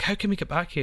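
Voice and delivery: put-on teen to dad, high astonished question; mock amazed teen. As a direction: sound like a stunned kid.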